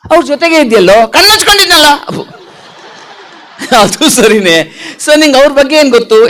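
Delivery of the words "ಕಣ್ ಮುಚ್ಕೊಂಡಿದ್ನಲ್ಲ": high puppet retort; cheeky puppet. Acted. Puppet explaining itself to handler, cheeky puppet voice.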